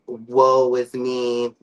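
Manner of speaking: slow, drawn-out woe is me; mock self-pity. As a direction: ham up the poor-me sigh. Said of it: "I don't wanna look like I'm".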